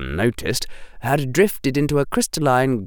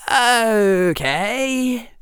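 put-on higher, brisk boyish Harry with sarcasm; young Harry voice; 12 semitones higher than usual. Harry answering the headmaster, higher and sarcastic. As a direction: voice Harry as a cheeky boy.

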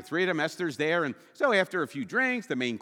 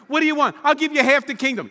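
much louder, higher grand offer; booming king; 10 semitones higher, 10 dB louder, faster than usual. Retold or imitated. Preacher mocking the king's grand offer, booming. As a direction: bellow the empty royal promise.

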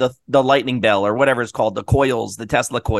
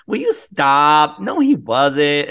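slow exasperated brush-off; slow eye-roll denial; mock wife brushing it off; dismissive wife; much slower than usual. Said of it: "she did the whole".

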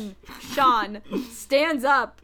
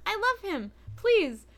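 doting parent gush; 8 semitones higher than usual. Retold or imitated. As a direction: coo over your darling son. Gushing over favorite character as son.

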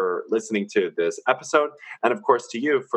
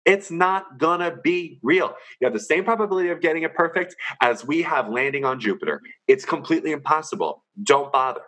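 higher, emphatic rant; 5 semitones higher than usual. Real, not acted. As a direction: push it hard. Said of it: "I didn't mean to yell at you".

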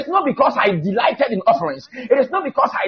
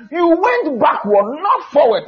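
"went backward" raised and drawn out, "not forward" punched; plain emphasis; 4 semitones higher than usual. Acted. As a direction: lift and stretch "went backward", then stress "not forward". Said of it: "Plain emphasis".

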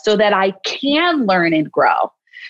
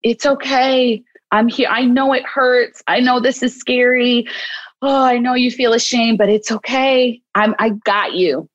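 comforting; 3 semitones higher than usual. Shown as a demonstration. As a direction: gently soothe a hurting child. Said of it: "but to just say".

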